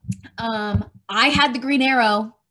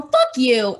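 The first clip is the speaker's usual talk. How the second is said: angry retort; 6 dB louder than usual. Retold or imitated. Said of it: "And I go".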